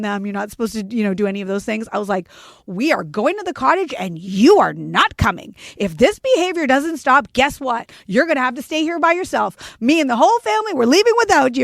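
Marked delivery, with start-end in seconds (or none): 2.7-11.6 put-on loud, higher, harsh scolding of a child; an old-school mom scolding her daughter, loud and firm; stern threat. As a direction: lay down the law with a raised voice. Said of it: "old school in me comes out".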